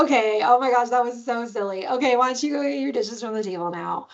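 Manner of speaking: lightly amused, easygoing parent; playful. Shown as a demonstration. Parent re-asking the chore, lightly playful. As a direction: brush it off lightly, then ask. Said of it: "when you're able to be playful".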